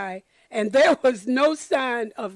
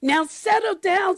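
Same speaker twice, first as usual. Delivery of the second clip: sweet voice; 6 semitones higher than usual. A narrator's reading. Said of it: "said Miss Nelson in a sweet voice".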